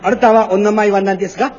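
mock Japanese. Shown as a demonstration. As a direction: say it again with a thick stage Japanese flavour. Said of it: "这是真有点日本味儿".

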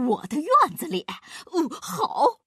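high, loud, delighted fat-man voice; overjoyed. A narrator's reading. Fat man learns it's in his yard, overjoyed. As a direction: exclaim it fresh from a happy laugh. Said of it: "高兴地哈哈大笑".

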